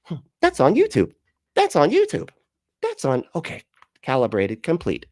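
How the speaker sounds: high, mechanical mock robot voice. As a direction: play him as a robot rebooting after a battery swap. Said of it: "And he's like".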